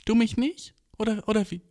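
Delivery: high, pleading imitation; mock high whine. Coworker asks his girlfriend if she doesn't love him, high whine. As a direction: whine it up high like a hurt boyfriend.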